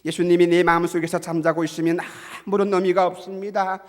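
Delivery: loud, insistent exhortation; impassioned preaching. Real, not acted. Preacher urges believers to wake Jesus, preaching forcefully.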